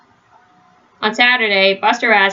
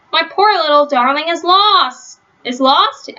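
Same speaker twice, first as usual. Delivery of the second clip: high, fussing lady's voice; fretful dog owner; 7 semitones higher than usual. A narrator's reading. Owner hearing her dog is lost, high and fretful. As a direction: wail over the lost pet, pitched up. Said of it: "asked Missus Reed".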